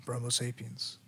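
mock epic trailer announcer; movie trailer voice. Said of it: "I'm trying to do my trailer voice".

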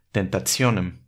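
tentationem slowly with ts in the middle; Latin TI as ts. Shown as a demonstration. Showing the TS sound in Latin. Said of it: "el sonido de una T S".

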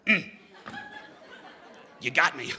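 chuckling "You got me"; laughing reply. Retold or imitated. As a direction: laugh through a sheepish admission. Joking reply to his teacher.

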